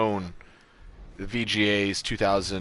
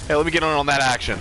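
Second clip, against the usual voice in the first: excited; 7 semitones higher, 8 dB louder, much faster than usual. Real, not acted. Jumping into the fight eagerly.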